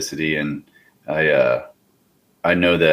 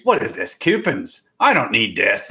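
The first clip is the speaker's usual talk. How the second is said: high mock old lady voice; an old lady from Pennsylvania turning down coupons; 4 semitones higher than usual. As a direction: imitate a fussy old lady at the grocery store, pitched up high. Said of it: "She goes".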